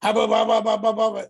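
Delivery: mock angry rant. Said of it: "she's hot, she's fit to be tied".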